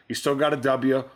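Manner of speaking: a light Southern drawl on "W", said as "dubya"; a hint of a Texas booster's drawl on "W". Real, not acted. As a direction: let "W" slip out as a drawled "dubya". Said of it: "But your W, or however you said W".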